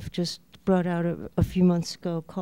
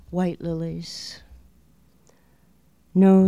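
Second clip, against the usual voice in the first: measured, spaced-out verse reading; poetry reading. Acted. Poet reads her own La Chalupa poem, measured recital. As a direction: let each image stand between pauses.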